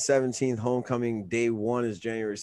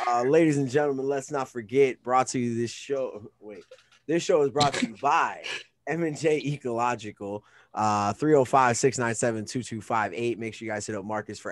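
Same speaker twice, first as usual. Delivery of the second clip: punchy announcer plugging a sponsor, louder; sponsor ad read; 4 dB louder than usual. Acted. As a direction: read the sponsor plug like a radio host.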